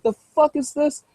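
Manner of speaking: high, groggy disbelief; a neighbor woken up, high and groggy; sleepy neighbor. Acted. Neighbor woken at three am, high groggy disbelief.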